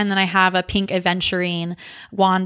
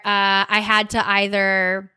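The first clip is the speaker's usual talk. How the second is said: normal talking voice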